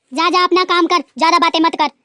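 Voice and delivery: loud, curt dismissal; dismissive rebuke. Acted. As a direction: send her off sharply. Mother-in-law dismissing daughter-in-law.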